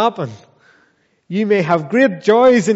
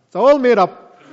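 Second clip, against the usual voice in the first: louder, mocking voice of a lying demon; scoffing demon; 4 semitones higher, 5 dB louder than usual. Preacher voicing demons scoffing at scripture, louder mocking sneer. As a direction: sneer it out as the deceiver. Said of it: "They say".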